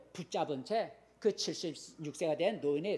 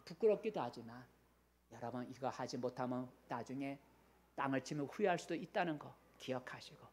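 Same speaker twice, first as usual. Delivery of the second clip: soft earnest appeal; 4 semitones lower, 7 dB quieter than usual. Real, not acted.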